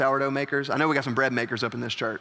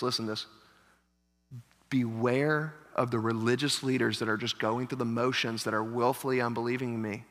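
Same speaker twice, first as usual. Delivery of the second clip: soft, low, serious caution; quiet earnest warning; 4 semitones lower, 5 dB quieter than usual. Retold or imitated. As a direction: lean in and warn them softly. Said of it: "What he's trying to say to them is".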